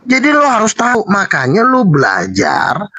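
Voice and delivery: slow shouted rebuke; lecturing the opponent with a slow shout. Real, not acted. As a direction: shout it at him, slowly.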